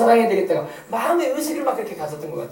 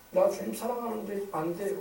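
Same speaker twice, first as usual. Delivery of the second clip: humble confession; 10 dB quieter than usual. Acted. Peter's tearful, humbled answer.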